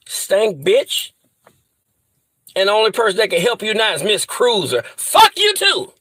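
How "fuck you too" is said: furious shout. Real, not acted. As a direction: yell it at her in full fury. Cursing Miss Cruiser.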